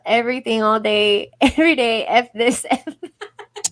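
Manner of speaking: loud, laughing mock quote; hammed-up quote with laughter; imitating a New Yorker. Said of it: "Look, he says".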